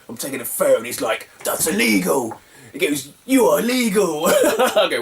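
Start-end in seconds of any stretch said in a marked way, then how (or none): 1.4-2.4 mock angry seller. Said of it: "he's gonna get angry". 3.2-4.2 high, indignant accusation; mock angry seller. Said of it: "he's gonna get angry".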